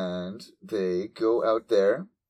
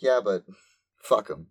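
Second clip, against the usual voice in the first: defiant Nymph; 4 dB louder than usual. Retold or imitated. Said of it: "is more defiant".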